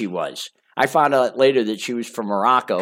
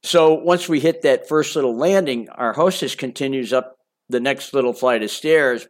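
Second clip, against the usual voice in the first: plain reading voice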